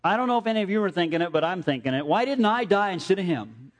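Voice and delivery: put-on a light old man's joke through laughter; joking old man. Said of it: "he said to the whole church".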